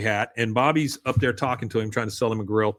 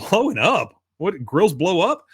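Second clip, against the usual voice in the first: higher-pitched mock disbelief; put-on incredulous questioning, pitched up; alarmed customer; 5 semitones higher than usual. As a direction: imitate a startled customer questioning. Acted customer alarmed echo.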